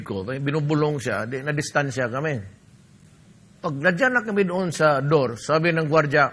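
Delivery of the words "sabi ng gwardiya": ordinary talk, nothing marked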